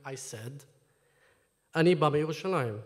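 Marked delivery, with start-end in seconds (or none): 1.8-2.8 put-on fast Hebrew with a throaty, gargled r in the Hebrew accent. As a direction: roll the Hebrew words out quickly, gargling the air like a native Hebrew speaker. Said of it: "In a Hebrew accent, while gargling the air".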